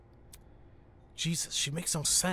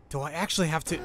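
whisper; 2 semitones higher, faster than usual. Real, not acted. Muttered reluctant aside.

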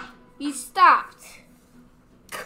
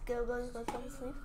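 whispering; 4 dB quieter than usual. Real, not acted. Hiding, afraid of waking him.

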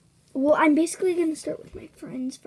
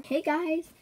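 LPS Spherical impression; 3 semitones higher than usual. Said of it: "P S Spherical".

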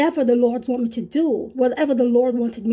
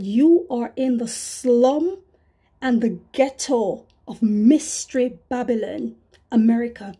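solemn Holy Spirit. Retold or imitated. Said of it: "just like that".

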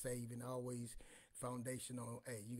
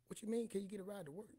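high, loud disbelief with a laugh; can't believe what she's asking; laughing incredulous what; 8 semitones higher, 3 dB louder than usual. Retold or imitated. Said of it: "I say".

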